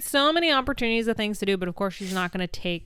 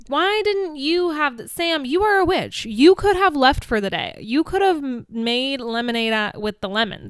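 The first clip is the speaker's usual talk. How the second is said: exasperated scolding; 2 semitones higher, 3 dB louder than usual. Retold or imitated. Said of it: "But I'm like".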